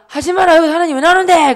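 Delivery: high, loud retort acted out; exasperated shout. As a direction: yell back at a nagging sister in mock exasperation. Brother snaps back at sister, acted.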